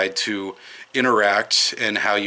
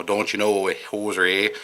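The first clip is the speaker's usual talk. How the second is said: put-on folksy Upper Midwest Wisconsin accent; a light Wisconsin accent, drawn-out vowels; slower than usual. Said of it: "my little Wisconsin accent come out".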